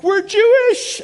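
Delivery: high, loud burst of news; buddy bursting in with big news; excited announcement. Retold or imitated. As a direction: blurt it out thrilled. Buddy bursting into dorm room.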